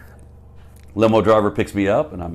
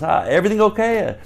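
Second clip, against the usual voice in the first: high, raised-voice imitation; pitched-up mock friendly query; Larry; 12 semitones higher, 5 dB louder than usual. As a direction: imitate a road manager checking in loudly. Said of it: "He goes".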